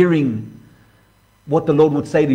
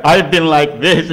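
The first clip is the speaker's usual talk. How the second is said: self-pitying moan; slower than usual. Pretend. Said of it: "and you beat yourself up for a week".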